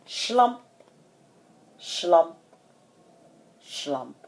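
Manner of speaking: weary, fading footfall words; dejected trudge. A narrator's reading. Sound of dejected footsteps.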